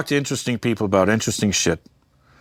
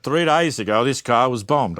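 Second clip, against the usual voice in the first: lightly put-on Australian reporter; mock Australian newsman on location; Australian accent. TV reporter standing by the bombed car, mock Australian accent. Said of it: "I don't know why he's Australian".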